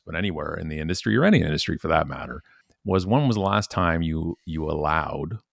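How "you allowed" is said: "allowed" leaned on, rising; "allowed" stressed with a lift. Shown as a demonstration. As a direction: lean into "allowed". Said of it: "a key, key emphasis on that word".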